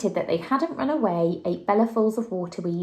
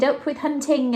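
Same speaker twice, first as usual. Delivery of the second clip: shouted; 7 semitones higher, 4 dB louder than usual. A narrator's reading. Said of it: "And they shouted".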